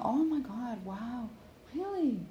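bright, excited listener noises, really jumps high; imitating nodding listener. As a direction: act out an eager listener reacting. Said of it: "If they're not going".

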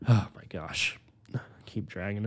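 breathless whisper to herself; real sheepish whisper; whispered aside. Real, not acted. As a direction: whisper it, a little embarrassed. Embarrassed aside about rambling.

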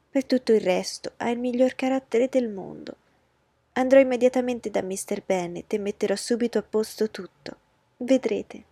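high, pushy voice of a fussing mother; a flustered matron laying down the law; anxious mother. Acted. Mrs Bennet reassuring Collins. (madre agitata, voce alta e insistente)

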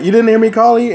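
annoyed parent. Retold or imitated. Parent scolding child for not answering.

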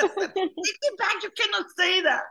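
high, loud and very slow, dragging out back; friend's echoed yell. Retold or imitated. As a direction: stretch the words out in a loud high mock yell. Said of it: "Y ella".

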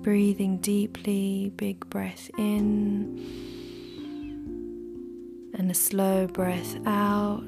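soft whisper, close to the mic; right in your ear. Acted. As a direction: breathe the words gently into the ear.

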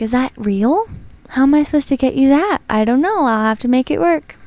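imitating a flustered boyfriend, pitch jumping up; puzzled protest, lightly acted and lilting; mock bewildered. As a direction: play at being stumped by a request. Retelling boyfriend puzzled by gift request.

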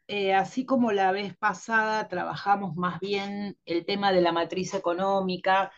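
stuffy nose from a cold; nasal voice. Real, not acted. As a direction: speak through a blocked nose. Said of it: "estoy resfriada todavía". (voz nasal de resfriada)

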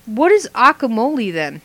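"guacamole" echoed as "ockamole"; mispronounced guacamole. Retold or imitated. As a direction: quote the slip, "guacamole" without its opening gw. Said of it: "put it together somehow".

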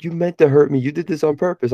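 a hint of high-pitched, wounded little boy; accusing kid. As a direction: imitate a hurt child accusing the coach. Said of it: "he was just like".

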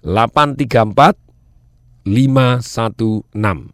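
slow, careful digit read; slow repeat. Shown as a demonstration. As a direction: spell each number out slowly. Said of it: "Saya ulangi".

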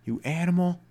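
hammed-up threat at the animal; mock threat. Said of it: "You're like".

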